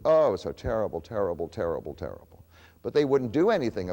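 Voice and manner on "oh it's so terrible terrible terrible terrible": mocking lament. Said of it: "English people would say".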